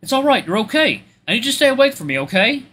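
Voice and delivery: high, comforting character voice; warm reassurance. Acted. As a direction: reassure a hurt drunk patient. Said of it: "His voice is so warm and soft".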